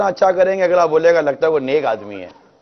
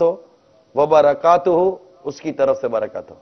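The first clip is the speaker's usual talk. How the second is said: sincere explained salaam; 4 semitones lower than usual. Shown as a demonstration. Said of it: "میں اس کو کیا کہہ رہا ہوں".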